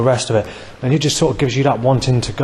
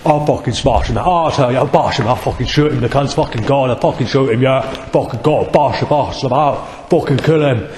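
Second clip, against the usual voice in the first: lightly voiced tough guy making threats, slightly raised; mock thug voice. Mocking hip-hop fans making threats, lightly voiced hard man. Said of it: "that speaks like this".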